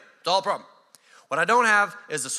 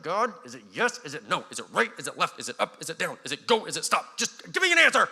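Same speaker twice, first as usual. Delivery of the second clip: frustrated prayer. Retold or imitated. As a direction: pile up the questions in frustration. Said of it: "frustration of like".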